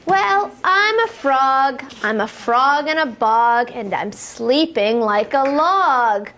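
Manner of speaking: sing-song rhyming read-aloud for toddlers; lilting picture-book voice, building to the jump; reading to children. Acted. Teacher reading a rhyme to little kids, sing-song.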